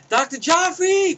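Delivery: drawn-out, high call of the doctor's name. Retold or imitated. Bob Saget calling for the doctor. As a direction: stretch the name out like a page down a hallway.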